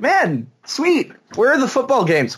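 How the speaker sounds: high-pitched, eager self-quote; mock excitement. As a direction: act out a happy, expectant thought. Acts out his jet-lagged excitement.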